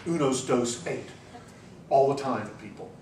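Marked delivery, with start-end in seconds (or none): 0.1-1.1 mock yell. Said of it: "to yell".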